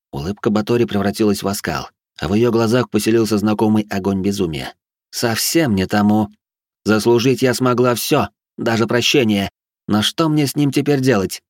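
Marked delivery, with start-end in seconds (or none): 5.1-11.4 mad noblewoman voice. Acted. Batori's lines in the story.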